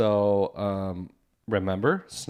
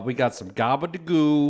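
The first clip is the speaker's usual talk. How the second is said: put-on Chicago Polish accent; 3 semitones higher than usual. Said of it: "we're doing a Polish accent".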